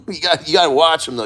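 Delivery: chuckling through the words; laughing. Real, not acted. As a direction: laugh it off quickly. Laughs right before.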